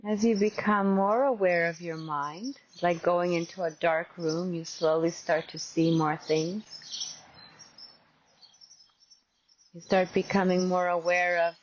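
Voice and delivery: measured meditation guide with long pauses; guided meditation. Real, not acted. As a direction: gently guide them into open awareness.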